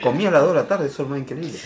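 talking with food in mouth; mouth full. Real, not acted. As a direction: chew and talk at once. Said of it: "Y habla con la boca llena". (hablando con la boca llena)

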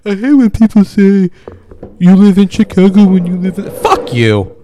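put-on ranting like a thick-accented Chicagoan. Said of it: "I sound like Chicago".

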